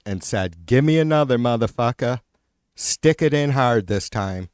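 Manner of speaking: biting, exasperated sarcasm with punched words; pissy sarcasm. Real, not acted. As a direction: spit out a scornful, sarcastic rant. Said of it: "fucking pissy sarcasm".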